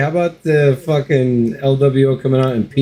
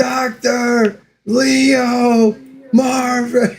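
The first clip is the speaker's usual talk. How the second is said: very slow, much higher drawn-out name; Bob's drawl; much slower than usual. Retold or imitated. Friend imitating Bob from the movie, slow drawl. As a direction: stretch each syllable like Bob the patient.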